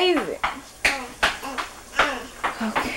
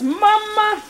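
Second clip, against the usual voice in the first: imitating child; 14 semitones higher than usual. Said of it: "He says".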